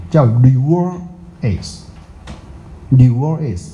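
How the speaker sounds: reverse drawn out very slowly; careful pronunciation. Shown as a demonstration. Teacher modelling reverse to students, slow. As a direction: sound out reverse slowly for the class. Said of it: "里面这个叫什么".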